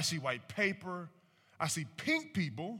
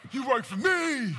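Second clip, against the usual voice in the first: higher, louder mock of a defiant friend, with a laugh; mocking loud entitled friend; 8 semitones higher, 8 dB louder than usual. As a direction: ham up the entitled friend yelling at police. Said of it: "They be like".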